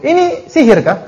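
slow taunting question through a laugh; amused, sneering question; mocking laugh. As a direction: laugh at them as you ask.

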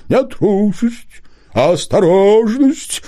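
high, slow owl voice, correcting; a prim owl setting things straight; owl objecting. A narrator's reading. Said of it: "возразила птица".

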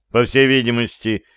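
ordinary delivery

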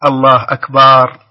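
imitating a caller who stretches "الله أكبر"; stretched takbir. Caller imitating common mistakes, drawn-out akbar. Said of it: "ومنهم من يقول".

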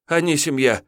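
высоко, сбивчиво; оправдываться в испуге; испуганно. Acted. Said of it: "испуганно заморгал парень". (парень испуганно отвечает тиуну)

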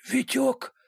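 barely moving the tongue; blackout drunk. A narrator's reading. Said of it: "еле ворочая языком".

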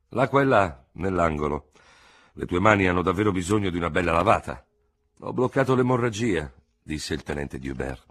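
brisk back and forth; doctor and lieutenant talking in the room; character dialogue. Acted.

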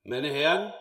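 booming voice. Acted. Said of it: "sagt er mit schallender Stimme".

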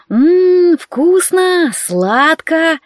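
gleeful little creature; delighted raccoon. Acted. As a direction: savor the treat like a greedy beast. Енот смакует зефир.

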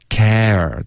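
"care" with the jaw dropped on the vowel; open vowel. Shown as a demonstration. Teacher models for student, open-mouthed "care". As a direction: open wide through "care". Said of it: "嘴巴再张开一点儿".

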